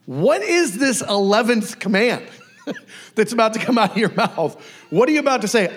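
amused, mock-wary questioning; incredulous questioning. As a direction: play a baffled listener bracing for news. Disciples question Jesus, acted, amused.

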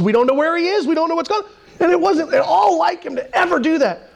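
high, rising retold alarm at a missing buddy; retold panic. Preacher retelling friends' panic, high and anxious. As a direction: pitch climbing high as the worry spills out.

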